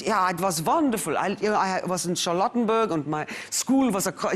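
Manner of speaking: lightly imitating a German accent; a hint of her father's German accent. Father remembering Berlin, in a light German accent. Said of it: "he spoke like this in South Africa".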